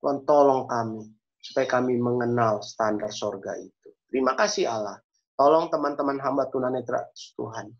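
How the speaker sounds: measured, even praying voice; earnest prayer. Real, not acted. Preacher leads the congregation in closing prayer, earnest and measured. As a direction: address God steadily, phrase by phrase. Closes prayer for blind friends.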